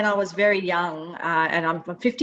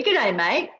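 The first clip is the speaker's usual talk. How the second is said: Aussie greeting; 4 semitones higher than usual. Shown as a demonstration. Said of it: "Can you give us a little bit of that?".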